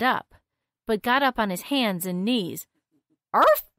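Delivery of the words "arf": high loud dog bark. A narrator's reading. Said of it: "he barked".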